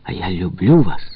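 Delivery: plain reading voice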